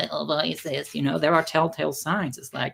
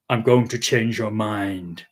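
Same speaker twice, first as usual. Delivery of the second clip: mock quote; 6 semitones lower, slower than usual. Quoting woman's intent.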